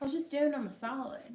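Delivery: ordinary delivery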